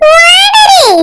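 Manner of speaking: "ஓனரு" shouted short and high; shouted sting. Acted. (உரக்கக் கத்தும் "owner")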